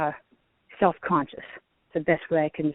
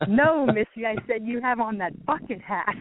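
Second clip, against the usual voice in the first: laughing through "No, Missy" as she corrects; laughing reply; 4 semitones higher than usual. Retold or imitated. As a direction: chuckle while correcting the misheard words. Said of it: "she started laughing".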